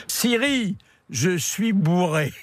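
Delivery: high, deliberate call to a machine; addressing a voice assistant. Real, not acted. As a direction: speak clearly so the phone understands. Talking to the Siri voice assistant.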